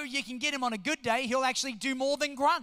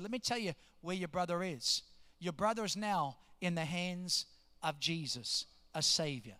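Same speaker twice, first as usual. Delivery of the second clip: low, soft, consoling tone; gentle reassurance; 6 semitones lower, 6 dB quieter than usual. Retold or imitated. Pastor telling bereaved man about his brother, gentle reassurance. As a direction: comfort softly, settling lower.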